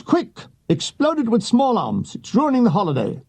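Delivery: a mock-urgent officer shouting at the troops. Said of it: "Chater Jack shouts".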